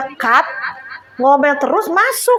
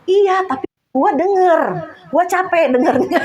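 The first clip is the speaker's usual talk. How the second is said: higher, mildly protesting retort; talking back; 5 semitones higher than usual. Retold or imitated. Wife retells answering her grumbling husband, talking back. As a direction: push back with a raised pitch. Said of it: "Jadi saya balesin juga".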